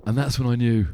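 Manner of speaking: measured, pausing before a low "real pain"; grave trailer-style pronouncement; mock-dramatic. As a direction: hold the pause, then drop the pitch. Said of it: "I'll do it again".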